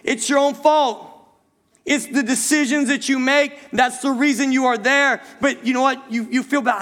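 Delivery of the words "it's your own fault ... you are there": imagined stern rebuke to a crying visitor; blunt rebuke. Retold or imitated. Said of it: "you wanna just look at them and say".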